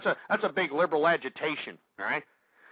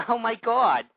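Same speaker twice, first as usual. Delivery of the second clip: laughing; 3 semitones higher, 3 dB louder than usual. Real, not acted. Laughs at own impression.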